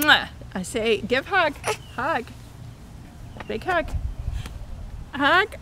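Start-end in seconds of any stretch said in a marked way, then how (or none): 0.0-0.3 kiss sound to the camera; smooch. Real, not acted. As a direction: blow a loud smooch. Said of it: "give Oma a big kiss".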